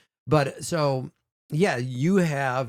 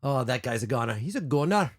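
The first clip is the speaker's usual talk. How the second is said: Scottish accent. Shown as a demonstration. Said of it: "So the O in Scottish".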